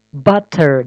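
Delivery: butter said with a clear hard T, as written; spelled-out T. Shown as a demonstration. Teacher shows how butter is written, clear T. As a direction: sound both T's in butter like a real T. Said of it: "double T жазылган".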